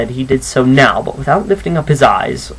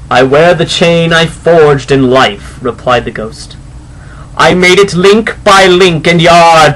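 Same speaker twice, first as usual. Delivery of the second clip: solemn ghost. Acted. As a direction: intone it like a phantom from beyond. Ghost describes its chain.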